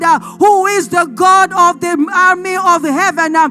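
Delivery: forceful sermon delivery, building in intensity; impassioned preaching. Real, not acted. Preacher urging the congregation to take fear to God, impassioned. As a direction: preach it with insistent, punched phrases.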